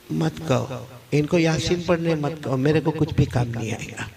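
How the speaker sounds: subdued, lightly voiced dying man; dying student. Dying student telling his teacher recitation is useless, subdued.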